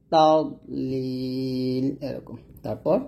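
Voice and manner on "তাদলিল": তাদলিল drawn out with a thick দ; heavy dad. Shown as a demonstration. Teacher models তাদলিল against the wrong তাদ. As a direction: say তাদলিল slowly, দ full and heavy. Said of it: "তাদ বলবেন না".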